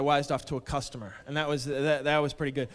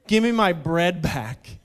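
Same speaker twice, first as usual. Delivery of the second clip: slow, louder, deliberate demand; quoted customer; 6 dB louder, slower than usual. Retold or imitated. Customer demanding his money back, slow mock-gruff quote. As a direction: imitate him, drawing out each word. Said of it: "and I quote".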